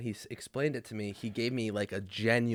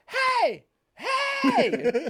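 high, loud calling shout; retold shout; 4 dB louder than usual. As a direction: yell Hey across the lot at a stranger. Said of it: "I just hear this lady go".

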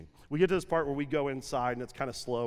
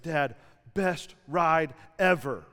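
put-on kid voice; 3 dB louder, slower than usual. Son voiced in story.

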